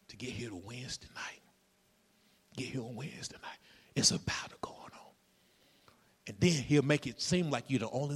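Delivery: soft, whispered sermon lines; hushed preaching. Acted. Preacher whispering to the congregation about the battle. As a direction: lean in and whisper the warning.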